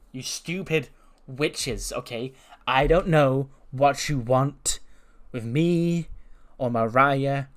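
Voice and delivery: a lightly voiced snooty heel; mock Tiffany promo. Recap acting out Tiffany's promo.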